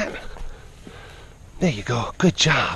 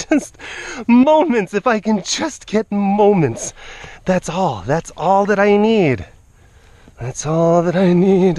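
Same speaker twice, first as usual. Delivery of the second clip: pleading; 5 semitones higher, slower than usual. Real, not acted. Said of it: "just a little bit of stillness".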